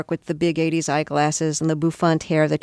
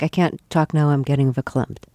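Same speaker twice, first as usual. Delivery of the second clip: Linda Richman line; 3 semitones lower than usual. Retold or imitated. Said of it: "expressions like verklempt".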